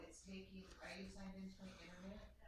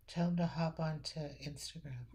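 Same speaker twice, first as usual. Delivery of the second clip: loud, called from across the room; calling out loud; 16 dB louder than usual. Real, not acted. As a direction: call it out so it carries.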